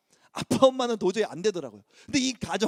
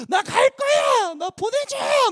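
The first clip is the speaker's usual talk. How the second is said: put-on much higher, loud pleading child's voice; frightened adopted boy begging to go back; crying child; 14 semitones higher, 3 dB louder, much slower than usual. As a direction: beg to be sent home like a scared kid. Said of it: "막 하면서 막 우는 거예요".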